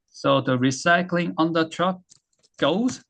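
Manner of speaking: very slow, word by word; "recycling" drawn out slowly for learners; slow teaching read. Shown as a demonstration. Teacher reading slowly to the class. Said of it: "자, 이제 어떻게 소리가 나는지".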